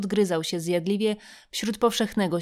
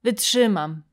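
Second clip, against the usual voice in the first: forced out, a little louder; Polish: z wysiłkiem; with effort; 3 dB louder, slower than usual. Acted. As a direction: push the word out with effort. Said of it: "jakby z pewnym wysileniem".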